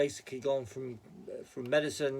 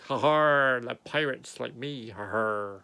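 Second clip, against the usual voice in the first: pirate voice; 3 semitones lower, 5 dB louder, slower than usual. Retold or imitated. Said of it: "'Cause I talk like a pirate".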